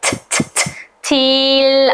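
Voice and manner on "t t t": whispered T sound repeated; T, t, t as a bare voiceless t; isolated letter sound. Shown as a demonstration. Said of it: "Hangi sesle başlıyor?".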